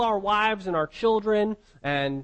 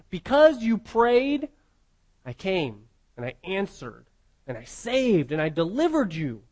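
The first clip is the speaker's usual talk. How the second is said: God speaking; 3 semitones lower than usual. Acted. God's reply voiced in sermon.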